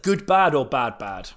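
soft unvoiced whisper. Real, not acted. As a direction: whisper it like a secret. Asking co-host conspiratorially.

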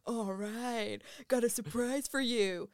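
a hint of a put-on dude voice; the speaker doing voices, a birthday party guy; lightly voiced party guy. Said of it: "doing all of these voices".

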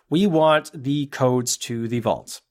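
slow, lightly put-on villain; a hint of a cool villain; Hans Gruber voice. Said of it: "Hans Gruber, myself".

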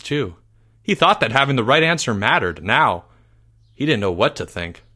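earnest audiobook telling of a crisis of belief; mock-epic storyteller; dramatic story narration. A narrator's reading. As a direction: build the drama, then let it fall.

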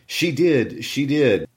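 put-on high, singsong child's taunt; lightly voiced nagging brat; taunting boy insisting.

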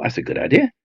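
a sudden thought, said up high; bright idea. Retold or imitated. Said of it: "I thought".

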